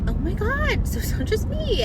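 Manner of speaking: high-pitched retold exclamation; excited validation. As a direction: exclaim it as if finally vindicated, voice up high. Retold relief at being validated.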